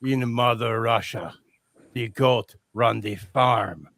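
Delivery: a hint of a Russian tough guy; Russian accent. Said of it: "with a thick Russian accent".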